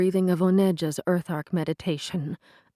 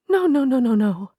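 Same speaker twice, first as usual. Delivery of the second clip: panic; 7 semitones higher, 7 dB louder than usual. A narrator's reading. Panic as the gate closes.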